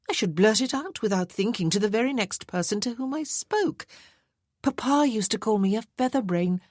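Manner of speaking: a vain society lady teasing about her wealth; playful marchesa. Acted.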